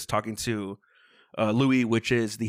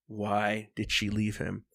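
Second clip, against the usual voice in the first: slow, drawn-out question; deliberate, slowed-down retold question; slow emphatic repeat; 2 semitones lower, 4 dB quieter, slower than usual. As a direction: spell out the question word by word.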